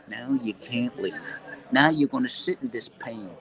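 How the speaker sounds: slow, menacing tough-guy voice, lightly done; a hint of a mob heavy laying down the law; Chaz Palminteri impression. Describing his nervous system to fans, light tough-guy impression. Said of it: "like Chaz Palminteri".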